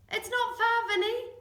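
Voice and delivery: cheering yell. Acted. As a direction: yell encouragement down the track. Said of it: "I yelled".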